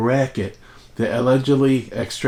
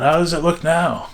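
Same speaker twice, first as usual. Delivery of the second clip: mild mock yell, higher in pitch; retold yell; 6 semitones higher than usual. Father on the roof yells down to mother, mild mock yell. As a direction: imitate father calling down. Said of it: "yell down".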